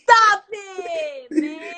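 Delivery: loud, high amazed outburst; espanto empolgado. Real, not acted. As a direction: shout it in delighted disbelief. Amazed reaction to his rap.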